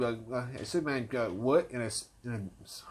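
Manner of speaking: stuck on the s, repeating; real stutter, words catching. Real, not acted. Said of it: "I still gotta work on my stuttering".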